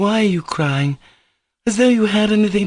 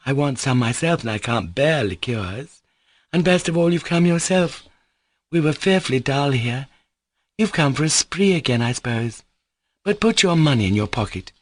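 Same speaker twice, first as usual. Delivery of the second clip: insistent chatter; 4 semitones higher than usual. Acted. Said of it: "she went on insistently".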